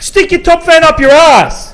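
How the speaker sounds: laughing insult. Real, not acted. Mocking the Daily Mail, laughing jeer. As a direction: jeer at the paper through a laugh.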